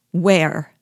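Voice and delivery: loud, anxious one-word question; faltering. A narrator's reading. Wife asking husband where they will meet, distressed. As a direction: press for the answer, distressed. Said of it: "in faltering accents".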